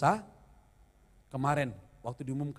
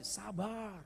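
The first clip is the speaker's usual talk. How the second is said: soft word; 4 semitones higher, 10 dB quieter than usual. Retold or imitated. Wife calming him again.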